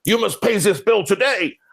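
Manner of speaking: high-pitched mock Ukrainian accent. CFO's recorded message to late payers, in a put-on Ukrainian accent. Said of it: "we got Igor in his Ukraine accent".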